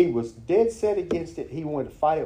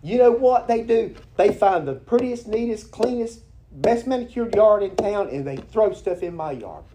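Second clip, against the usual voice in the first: higher, louder indignant complaint; upset rant; 8 semitones higher, 6 dB louder than usual. Retold or imitated. Friend complaining about litterers, indignant. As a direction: rant like the wronged yard owner. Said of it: "he was all upset".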